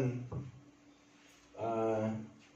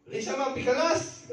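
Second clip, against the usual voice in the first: much higher, sneering mock voice of an insulting coworker; 13 semitones higher, 3 dB louder than usual. Coworker taunting a foreign colleague at work, high mocking voice. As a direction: mimic a coworker jeering at you across the office. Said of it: "Gaganon pa".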